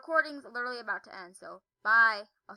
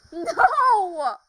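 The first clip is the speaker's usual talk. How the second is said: loud cry; 5 semitones higher, 15 dB louder than usual. Real, not acted. Falling in game.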